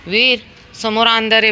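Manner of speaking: high, loud shout for Veer; calling out. Real, not acted. Mother calling her son back from the dark, loud shout. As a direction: shout his name across the yard.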